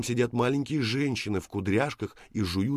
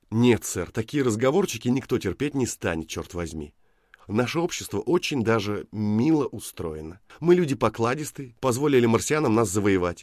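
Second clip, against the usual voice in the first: indignant lecture; 3 semitones higher, 6 dB louder than usual. Acted. Woman lectures the Martian indignantly.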